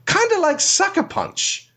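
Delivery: mocking aside. Real, not acted. Disdainful aside.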